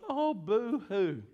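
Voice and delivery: slow, drawn-out fake boo-hoo; mocking the world's tears; mock crying. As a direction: pretend to wail, hammed-up and slow. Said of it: "they're gonna be crying".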